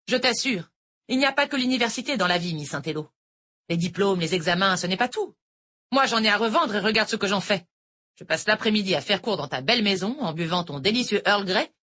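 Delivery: lightly voiced older teacher; a hint of a sweet Irish tutor; sweet-talking teacher, lightly voiced; teacher Noël. A narrator's reading. Noël bitter rant.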